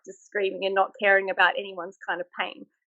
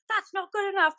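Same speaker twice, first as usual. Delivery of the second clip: higher, mock-stern verdict; put-on stern instructor; 9 semitones higher than usual. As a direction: play the strict inspector, all an act. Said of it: "I was like".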